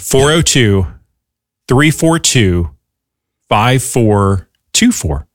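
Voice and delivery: phone number read slowly with long pauses; slow, measured digits, spaced well apart. Shown as a demonstration. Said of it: "Could you say that number slower".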